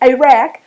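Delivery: "Iraq" started with a throat-tight ayn; guttural Iraq. Shown as a demonstration. Teacher correcting how English speakers say Iraq, guttural. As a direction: begin "Iraq" with a choked ayn. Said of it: "No, it's I".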